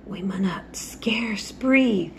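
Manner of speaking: slow whisper in broad Yorkshire; hushed broad Yorkshire whisper. A narrator's reading. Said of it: "he whispered in a broad Yorkshire accent".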